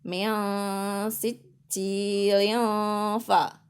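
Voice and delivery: slow chanted demo running "sicil" into "ya fa"; joined-up recitation. Shown as a demonstration. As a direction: draw out "ya" slowly, then a short "fa". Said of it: "Kalau diwasolkan jadi".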